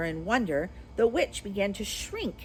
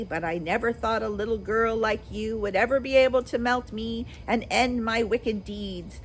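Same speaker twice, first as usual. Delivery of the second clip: dying witch; 3 semitones higher than usual. Acted. Melting witch speaks her last words to Dorothy, a high wail. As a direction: let the witch give her last lament.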